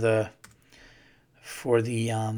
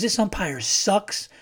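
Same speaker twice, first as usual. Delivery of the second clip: lightly voiced kid, higher and slow; imitating young son; 8 semitones higher, slower than usual. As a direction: play your little boy grumbling about the umpire. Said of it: "he goes".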